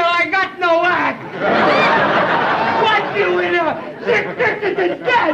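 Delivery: put-on French accent. Dubois mourns his cricket.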